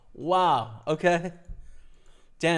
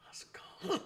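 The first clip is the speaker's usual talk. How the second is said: triumphant cheer; 10 dB quieter than usual. Real, not acted. Jar finally opened.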